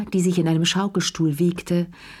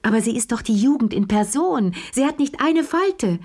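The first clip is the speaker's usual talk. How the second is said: high, mock-admiring gush; ironic praise; 6 semitones higher than usual. A narrator's reading. Lea mocking Marie-Laure with high, sugary praise. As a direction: praise her sweetly with a sting.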